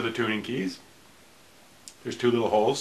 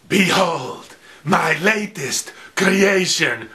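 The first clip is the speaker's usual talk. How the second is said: mad scientist; 3 semitones higher, 4 dB louder, slower than usual. Pretend. Frankenstein reveal of guitar.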